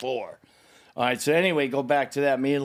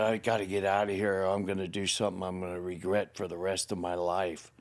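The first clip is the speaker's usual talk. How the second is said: low, soft, restrained voice; quiet warning to the wife he wanted to hurt; held-back menace; 6 semitones lower, 6 dB quieter, faster than usual. Retold or imitated. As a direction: hold the rage down tight. Retold restraint from rage.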